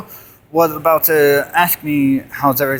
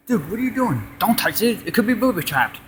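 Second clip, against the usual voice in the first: hushed warning; 2 semitones higher, 7 dB quieter, faster than usual. Acted. Acted scene, worried friend.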